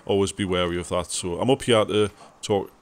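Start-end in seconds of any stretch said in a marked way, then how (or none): 1.1-2.7 tongue stuck, stumbling over words; tongue stuck to roof. Real, not acted. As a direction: talk with tongue stuck to palate. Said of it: "my tongue got stuck to the roof of my mouth".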